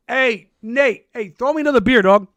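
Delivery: put-on loud, high drunk American frat call; yelling across the party for a beer, accent dropped; dropping the Irish act to shout at a buddy; own American bro voice. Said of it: "I just completely checked out of character".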